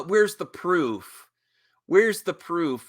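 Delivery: slow, sneering mock question; mocking whine. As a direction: parrot the trolls slowly and sneeringly. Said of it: "to act like".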